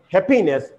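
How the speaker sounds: "happiness" said hap-PI-ness; wrong stress, second syllable. Shown as a demonstration. Teacher demonstrating a mistake, stress on second syllable. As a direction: punch the middle syllable of "happiness". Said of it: "then the stress falls on the second".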